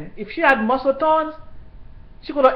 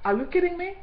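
shocked disbelief; 8 semitones higher, 4 dB quieter, faster than usual. Retold or imitated. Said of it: "I'm like".

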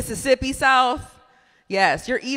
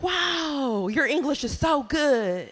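higher, drawn-out mock admiration; restaurant lady; 4 semitones higher, slower than usual. Lady praises comic's English, mimicked admiring voice. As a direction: gush lightly as the impressed lady. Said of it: "She's like".

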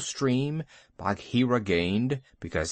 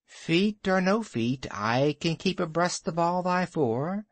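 short and curt, a little raised; curt snake; 5 semitones higher than usual. Acted. Kaa answers Bagheera curtly, a touch of python pride. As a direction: clip the answer, a hint of a proud python. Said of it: "said Kaa shortly".

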